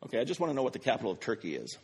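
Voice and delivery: quick, clear repeat for the phone; repeating to voice assistant. Real, not acted. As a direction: spell it out fast for Siri. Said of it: "Hold on".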